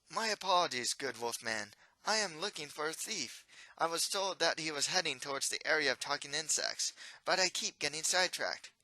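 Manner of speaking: a flustered polite royal; young prince voice. Acted.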